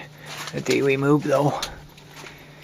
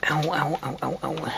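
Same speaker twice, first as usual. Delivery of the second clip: pained ow; 5 semitones higher than usual. Real, not acted. Pain while moving in basement.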